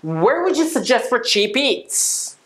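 slow, clear model sentence; careful teacher demo pace; slow model read. Shown as a demonstration. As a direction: spell it out slowly for learners. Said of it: "最後に一回行きます".

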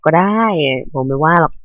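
performing a livelier voice on request; lively on request. Pretend. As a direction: put on colour for the viewers. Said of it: "ถ้าอยากให้ผมพูดมีสีสันก็".

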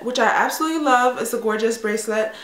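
ordinary talk

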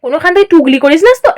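quick, playful mock suspicion; lightly needling auntie; teasing. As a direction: tease them with a rising question. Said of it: "তপনকে মজা করে বলছে".

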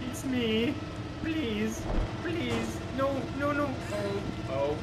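high, squeaky, hammed-up crushed-man whimper; squashed squeaky voice. Answering the squad lead from under the tank, high and squeaky.

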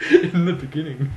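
cracking up at the preacher's words; laughing mock echo. Real, not acted. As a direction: repeat it through real laughter, loud and high. Laughing while echoing the preacher.

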